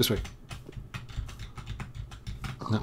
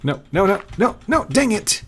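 rising, much higher frustrated cries of no; 12 semitones higher, 5 dB louder than usual. Real, not acted. Gamer yelling as the pig runs off, frustrated high no. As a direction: yelp it as the pig gets away. Pig escapes while he herds it.

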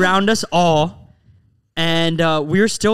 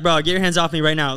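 lower, level imitation of composure; calm retort; 4 semitones lower than usual. Friend telling attacker to let go, imitated calmly. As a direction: quote a cool, composed warning. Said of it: "you were so calm".

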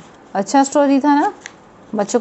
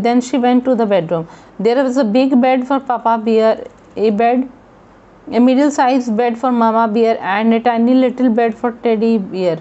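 slow, measured English story reading; story read aloud; much slower than usual. A narrator's reading. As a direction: read the story slowly, word by word. (धीरे-धीरे कहानी पढ़ते हुए)

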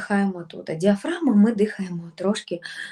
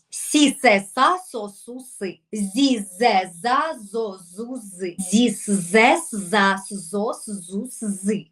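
сі, се, са drilled with a bit more energy; more active; slower than usual. Shown as a demonstration. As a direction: liven up сі се са. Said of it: "Давайте активніше трошки".

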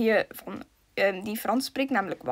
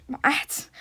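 whisper. Real, not acted. Fluisteren tijdens gamen.

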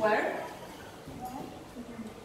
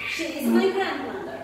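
clear model sentence; 6 dB louder than usual. Shown as a demonstration. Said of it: "Very good".

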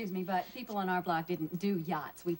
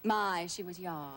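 put-on old movie heroine. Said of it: "seen Philadelphia Story?".

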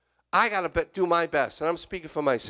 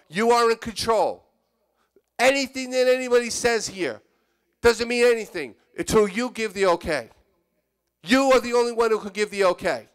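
fervent prayer; 6 semitones higher, 4 dB louder than usual. Acted.

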